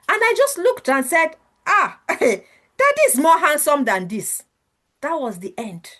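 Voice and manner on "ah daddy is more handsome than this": slow, laughing tease over her drawing; teasing laugh. Retold or imitated. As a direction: chuckle it out as a playful jab. Father teasing daughter's drawing.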